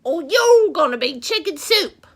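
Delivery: a cocky little rooster reciting its rhyming complaint; lightly voiced barnyard rooster, loud at the start; rooster puppet voice. Rooster puppet telling the children its story, lightly voiced cocky bird.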